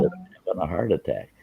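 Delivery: faint, strained, barely voiced; weak near-whisper. Man in chest pain asks daughter for help, faint and strained. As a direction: push the words out with no breath left. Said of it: "I could whisper".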